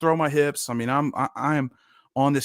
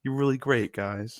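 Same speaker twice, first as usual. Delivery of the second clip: condescending. Retold or imitated. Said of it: "condescending tap on the head".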